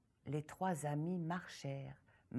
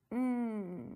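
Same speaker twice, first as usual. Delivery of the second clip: savouring hum; 4 semitones higher than usual. Acted. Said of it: "La petite se régalait".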